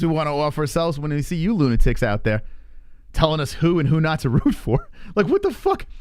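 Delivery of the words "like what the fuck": high incredulous what the fuck; exasperated disbelief, pitched up; high, exasperated outburst. Real, not acted. Outraged rant at critics.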